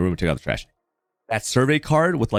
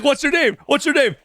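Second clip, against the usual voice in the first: high, eager voice of an amazed mover; high-pitched mover voice in disbelief; 13 semitones higher than usual. Retold or imitated. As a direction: play the stunned, thrilled mover. Mahmoud's amazed reaction retold.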